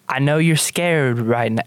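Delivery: put-on gentle line sliding into country accent; slipping country accent. Hope soothes a scared girl, accent slipping country. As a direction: let a country accent creep in. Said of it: "slipping into, like, country accent".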